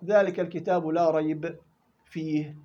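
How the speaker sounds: slow, stopping at both ريب and فيه; wrong double stop. Shown as a demonstration. Teacher showing the wrong stop at both words, slow. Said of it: "تقف على الثنتين غلط".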